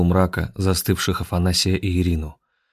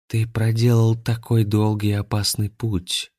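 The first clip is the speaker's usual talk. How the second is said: muffled; 3 semitones higher than usual. Acted. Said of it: "глухо произнесла Анастасия".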